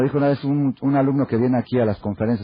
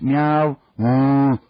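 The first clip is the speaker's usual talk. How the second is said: animal noises; 2 semitones higher, 4 dB louder than usual. Retold or imitated. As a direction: mimic cat and cow lightly. Baby in desert imitates animals. (imitando un gato y una vaca)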